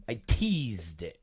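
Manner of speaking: hushed teasing echo; quiet slow repeat. Shown as a demonstration. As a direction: let it drop to a low murmur. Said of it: "repeats the tease line".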